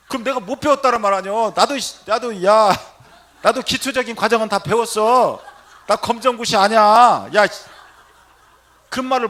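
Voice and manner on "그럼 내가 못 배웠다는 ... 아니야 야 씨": high, loud, comic protest; hammed-up wounded pride at full volume; indignant outburst. Priest defending his schooling to the patient, indignant shouting.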